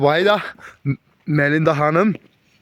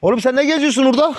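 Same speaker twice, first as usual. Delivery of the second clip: calling out; 10 semitones higher, faster than usual. Real, not acted. Calling out to a wandering dog.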